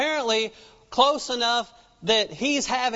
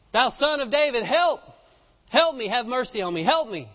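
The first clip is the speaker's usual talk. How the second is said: pleading woman; 3 semitones higher than usual. Acted. Woman begging Jesus for help.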